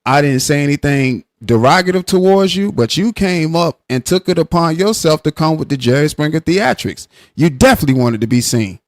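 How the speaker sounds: heated comeback in an argument; heated retort. Real, not acted. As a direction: argue your point up high. Heated argument, defending himself.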